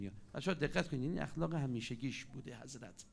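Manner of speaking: ordinary talk, nothing marked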